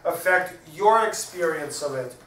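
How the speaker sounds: loud, high-pitched parrot. A narrator's reading. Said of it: "signs the parrot".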